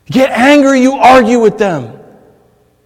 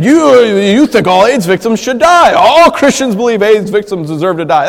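accuser; 5 dB louder than usual. Retold or imitated. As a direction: press the charge on him hard. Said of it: "someone coming over here saying".

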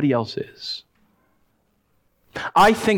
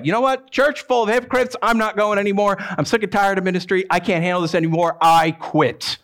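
fed-up quitter; 2 semitones higher than usual. Retold or imitated. Preacher voicing a fed-up believer, exasperated. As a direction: throw up your hands and quit.

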